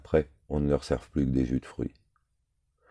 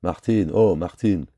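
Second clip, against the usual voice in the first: louder, higher call of a name; raised, sing-out call; 4 semitones higher, 6 dB louder, slower than usual. A narrator's reading. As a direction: hail someone from afar. Calling out to someone named.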